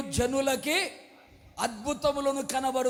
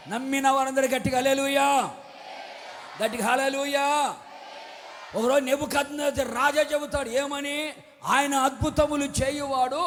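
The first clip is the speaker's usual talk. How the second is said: preaching at full force. Acted. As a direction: proclaim each blessing over the crowd. Preacher calls hallelujah, declares miracles.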